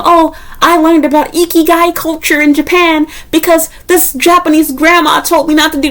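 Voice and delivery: high, gushing mock voice of a dreamy tourist; mock sentimental traveler. Vlogger mocks sentimental expat articles, high gushing voice. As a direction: ham up the starry-eyed foreigner.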